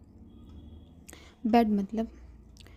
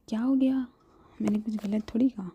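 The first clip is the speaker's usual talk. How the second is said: mock innocent; 5 dB louder than usual. Shivi protests innocently.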